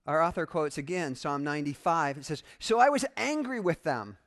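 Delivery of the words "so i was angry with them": loud, raised scripture quote; God angry. Acted. Preacher reads God's words from the psalm, angry. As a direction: declare it forcefully as an angry God. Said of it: "Yeah, God gets mad".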